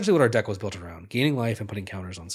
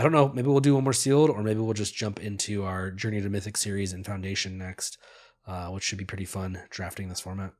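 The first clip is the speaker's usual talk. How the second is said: stuffy nose, nasal and blocked; nasal congested voice. Real, not acted. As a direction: speak through a congested nose. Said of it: "my nasally congested voice".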